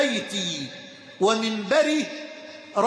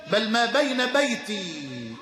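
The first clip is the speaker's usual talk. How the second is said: slow, deliberate بين بيتي; slow emphasis; slower than usual. Shown as a demonstration. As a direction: draw out بيتي to make the point. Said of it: "ولم يقل ما بين قبري". (نطق بطيء مع التشديد على بيتي)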